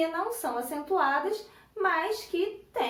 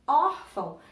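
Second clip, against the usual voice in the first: órfão with the OR hit louder; stress on first syllable; 5 dB louder than usual. Shown as a demonstration. Teacher showing the strongest syllable, órfão punched on its first syllable. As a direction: punch the "ór" in órfão, let "fão" drop. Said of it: "que é a sílaba mais forte".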